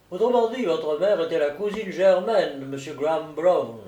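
lightly voiced, emphatic solicitor; solicitor explaining. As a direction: lay out the family tree name by name. Narrator voices solicitor explaining the lineage. (solliciteur qui expose, légèrement joué)

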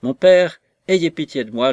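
high, loud begging cry; cling to him and beg for pity; desperate plea. Acted. Daughter clutches father's coat, pleading.

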